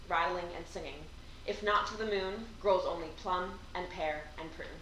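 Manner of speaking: hushed recital of a short poem; poem reading. Acted. Reads poems aloud.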